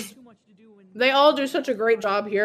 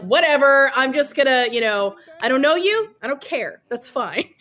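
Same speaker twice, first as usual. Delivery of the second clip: lightly voiced, breezy dismissal, a bit higher; couldn't-care-less; 3 semitones higher, 3 dB louder than usual. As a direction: wave them off as not worth caring about. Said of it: "no fucks given".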